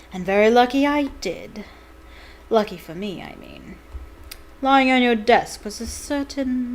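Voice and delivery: a cold, gloating professor; gloating teacher. Acted. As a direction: savour every word of the triumph. Snape's gloating speech.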